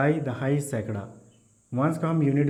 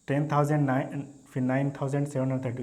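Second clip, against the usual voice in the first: wrong reading. Shown as a demonstration. Teacher shows students the wrong way to read, split apart. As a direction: split "टेन थाउजेंड नाइन" into separate numbers, the wrong way. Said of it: "ऐसा नहीं पढ़ेंगे कि".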